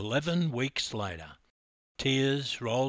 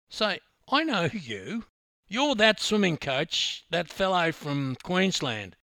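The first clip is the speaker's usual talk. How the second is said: excited; 6 semitones higher, 4 dB louder than usual. Acted. Attendant recognizing the narrator.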